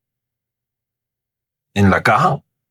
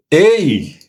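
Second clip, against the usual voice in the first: hurried and brusque; 8 semitones higher, much slower than usual. Retold or imitated. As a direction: rush it out like an annoyed cashier. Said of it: "así como todo afanado".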